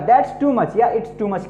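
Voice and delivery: slow model phrase. Shown as a demonstration. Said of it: "उसको क्या कहिएगा?".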